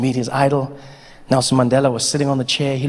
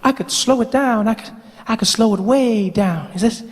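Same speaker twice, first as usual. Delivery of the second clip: high voice slowing down; 5 semitones higher than usual. Acted. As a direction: still high but easing the pace. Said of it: "That's better".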